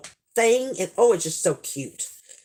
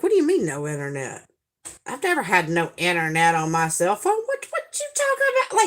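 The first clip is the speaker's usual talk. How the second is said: indignant disbelief; 2 semitones lower, faster than usual. Retold or imitated. Storyteller replays her reaction to losing internet, indignant disbelief. Acted disbelief at phone message.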